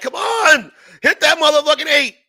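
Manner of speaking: high, loud call for the dice; hyped gambler shouting at the dice; craps table yell. Retold or imitated. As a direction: cheer the roll like you're at the table.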